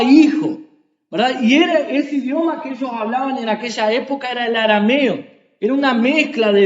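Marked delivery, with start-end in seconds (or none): none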